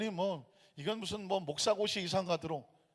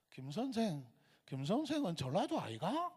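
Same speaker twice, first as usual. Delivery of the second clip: lilting Gyeongsang dialect question, pitch swinging up and down; Gyeongsang accent; 4 semitones higher than usual. Retold or imitated. Gyeongsang teacher asks a colleague where he's from, Gyeongsang accent. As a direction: imitate a Gyeongsang man's sing-song question. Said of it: "경상도 분이에요".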